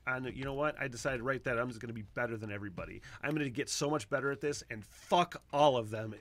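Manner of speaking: fast then slowing to a mild emphatic end; lightly voiced paraphrase. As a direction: paraphrase the hero with mild resolve. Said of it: "And he's like".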